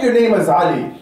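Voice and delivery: firm, proud declaration of a name. Shown as a demonstration. Preacher shows a brother how to introduce himself, proudly. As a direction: state the name with pride. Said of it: "And say it with pride".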